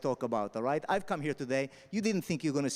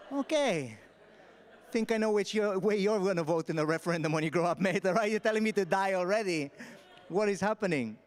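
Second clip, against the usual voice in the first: laughing disbelief; 3 semitones higher than usual. Retold or imitated. Retold reaction to name Dai.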